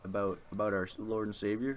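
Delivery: a light southern twang, sweetly pushy; Jehovah's Witness at the door, asking in a southern accent. Retold or imitated. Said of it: "I gave them a southern accent".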